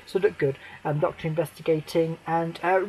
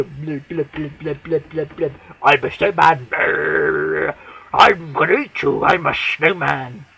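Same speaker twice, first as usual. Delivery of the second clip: lightly voiced lumbering snowman; mock snowman; 4 semitones lower than usual. Fan mocking the snowman monster in a dopey voice.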